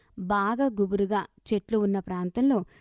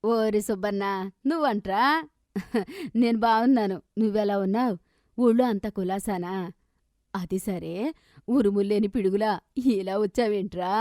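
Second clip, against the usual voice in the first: affectionate. Acted. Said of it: "అని చాలా ఆప్యాయంగా అంది".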